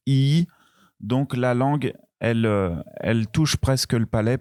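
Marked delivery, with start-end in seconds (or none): 0.1-0.5 rising I. Shown as a demonstration. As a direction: let the I climb up. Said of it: "le son, il monte".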